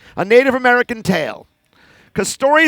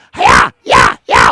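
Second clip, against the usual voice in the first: low gruff karate shout; karate yell; 6 dB louder, slower than usual. Acted. Karate chipmunk puppet strikes, gruff low hi-ya. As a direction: chop with a gruff hi-ya.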